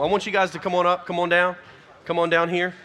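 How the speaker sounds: loud call to come forward. Real, not acted. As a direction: pastor calling the students forward, loudly. Calling students up front.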